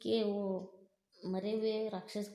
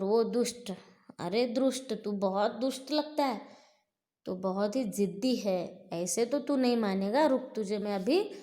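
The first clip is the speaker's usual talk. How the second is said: demon taunting; 3 dB louder than usual. Acted. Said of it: "तो बोलता है बकासुर".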